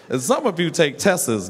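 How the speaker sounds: "tests" stretched into tesses, mocking. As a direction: poke fun at the extra syllable in "tests". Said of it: "that ain't even African".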